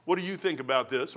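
what do you think about this, with the weight on what; stress on what. Shown as a demonstration. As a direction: lean on what before the rest.

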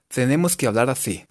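"así" as "athí"; tongue against upper teeth, blowing on "así"; lisping. Shown as a demonstration. Teacher explaining th to learners, lisped "así". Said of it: "con la lengua contra los dientes de arriba".

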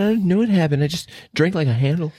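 mock dazed voice. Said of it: "he's like".

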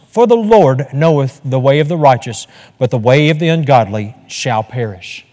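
one voice reading the psalm aloud; reading aloud solo. Shown as a demonstration. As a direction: read the psalm alone, measured and clear. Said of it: "So I'm gonna read it aloud the first time".

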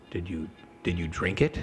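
low, understated checking question; lightly voiced ominous game master. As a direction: ask it low, setting a trap.

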